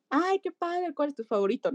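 entusiasmo agudo para animar a un niño; entusiasmo animador. Retold or imitated. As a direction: anima al niño con tono agudo y alegre. (entusiasmo agudo para animar al niño)

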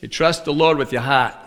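New England "heart" with the r dropped; New England-flavored verse, dry delivery; New England accent. Shown as a demonstration. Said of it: "Would I make a good New Englander?".

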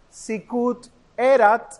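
SICUT ERAT, slow, each final t sounded. Shown as a demonstration. Teacher advising students to pronounce the Ts, slow careful diction. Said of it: "las T sería bueno pronunciarlo".

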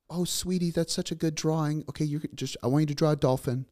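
high, sing-song imitation of a doting mother; pretend mom. Dad mimicking his daughter playing mom, high doting voice. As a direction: coo like a little girl playing mom. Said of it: "So she's mom".

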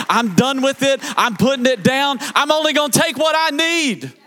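rising sermon cadence with shouted lines; full-force preaching. Acted. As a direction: whoop it out over the organ. Climactic preaching with music.

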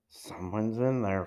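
soft, breathed under the breath; breathy whisper. A narrator's reading. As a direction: barely breathe the words out. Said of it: "Frank breathed".

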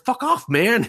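high, loud mock snap; mock brush-off. Guy startled by a lookalike, high annoyed brush-off. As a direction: shoo him off in a squeaky put-on voice. Mistakes him for ghost.

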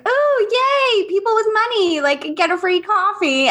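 mock-thrilled, eye-rolling cheer; sarcastic mock cheer. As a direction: squeal a sarcastic yay, pitch way up. Sarcastic inner thought at Starbucks.

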